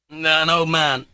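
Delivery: high, loud correction; cried out. A narrator's reading. Mitya correcting Pyotr Ilyich, crying out. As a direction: cry it out at him. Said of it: "cried Mitya".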